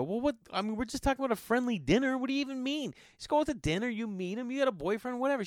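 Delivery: high, light-voiced retold coaxing; dismissive persuading. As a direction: wave the objection away, pitch up. Retold brushing aside of boyfriend objection.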